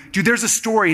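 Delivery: acted-out insisting, slightly high; playful insistence. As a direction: coax a friend who is holding back. Acting himself pressing Miles.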